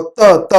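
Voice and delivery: ت repeated as short "ta, ta"; isolated letter sound. Shown as a demonstration. Teacher showing the tongue takes part, ت repeated as "ta". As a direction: tap the tongue for each ت. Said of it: "ت کی آواز نکالنے میں زبان".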